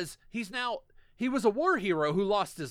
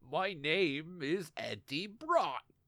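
put-on bad American accent; 5 semitones lower, 5 dB quieter than usual. Mocking an actor's performance, introduce yourself as Eddie Brock in Tom Hardy's bad American accent. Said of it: "Tom Hardy's American voice is shit".

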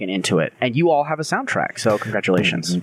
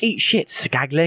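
put-on British accent, pitched up; 6 semitones higher than usual. Taunting an enemy named skaglick during play: british accent. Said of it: "but I say it with a British accent".

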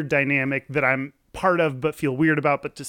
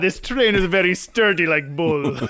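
put-on Russian accent, louder; 3 semitones higher, 4 dB louder than usual. Joking about how Russians talk, in a mock Russian accent.

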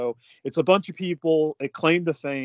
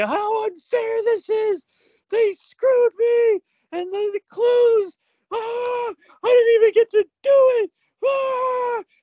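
very high, loud yelling, "ah" stretched long; 5 dB louder than usual. Retelling how a contestant yelled while packing: imitating someone yelling. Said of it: "she's, like, yelling".

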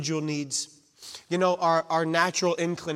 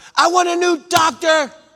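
very loud, high, shrill, drawn-out demanding yell; 13 semitones higher, 11 dB louder than usual. Retelling how the mom demanded a new doctor: imitating louder yelling. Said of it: "She starts yelling louder".

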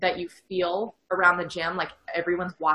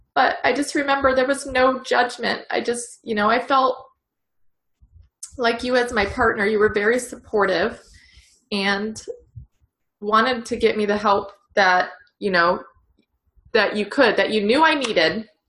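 moved, heartfelt, emotional, raised voice; 4 semitones higher, 5 dB louder than usual. Telling a partner how supportive they were back then, getting emotional. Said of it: "I'm going to get emotional".

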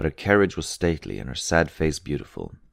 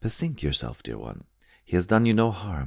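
plain

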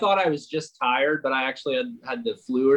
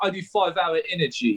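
put-on British accent; 2 semitones higher than usual. Retelling what a promo rep kept saying: imitating a British accent. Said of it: "this guy was British".

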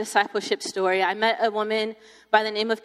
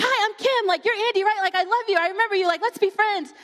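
play-acted, frantic, over-eager, very high, rushed gush; 11 semitones higher than usual. Retelling seeing her again after spring break, the speaker imitates Kim freaking out. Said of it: "she's freaking out".

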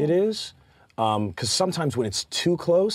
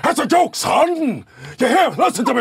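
loud, high, bellowing cartoon rooster voice; 11 semitones higher, 6 dB louder than usual. Joking about an actor doing Foghorn Leghorn: Pacino doing Foghorn Leghorn voice. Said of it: "he's getting an Oscar for doing Foghorn Leghorn".

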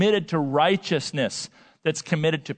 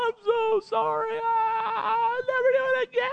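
play-acted uncontrolled weeping, very high-pitched, drawn out. Speaker retells being caught by a security guard, retelling uncontrolled weeping. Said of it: "I just start like weeping uncontrolled".

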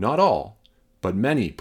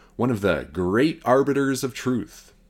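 dry, sarcastic tone of mock praise; 3 semitones higher than usual. Describing a fact-checking website to viewers: sarcastic tone. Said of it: "I'm being sarcastic".

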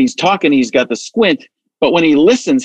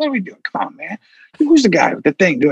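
rambling, stop-start politician voice with half-finished phrases; 4 semitones higher than usual. Showing Joe Biden starting many sentences: imitating Joe Biden. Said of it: "he'll start five sentences".

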